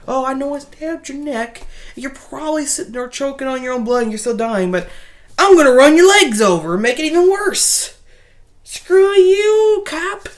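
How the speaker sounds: mock gloating Doctor. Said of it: "He's like".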